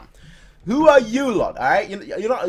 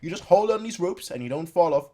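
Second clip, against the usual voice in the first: scolding rider; 4 semitones higher, 8 dB louder than usual. Acted. Voicing rider scolding the horse.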